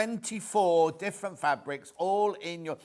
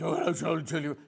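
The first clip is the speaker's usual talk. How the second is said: lightly put-on caller voice; mock Julie Vaughan; faster than usual. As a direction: playfully imitate a viewer's greeting. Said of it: "I was going like this".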